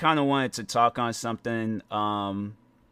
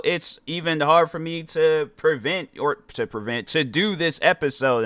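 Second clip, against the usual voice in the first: halting self-corrections; stumbling over words; 4 semitones higher than usual. Real, not acted. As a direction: restart mid-phrase, tripping on the wording. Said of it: "I'm sitting there stumbling over my words".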